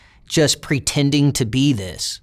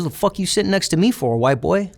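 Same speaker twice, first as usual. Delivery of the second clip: higher-pitched mock challenge; retold challenge to an unwelcome seatmate; confrontational challenge; 6 semitones higher than usual. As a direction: imitate someone sizing up a stranger. Acted hostile challenge on prison bus.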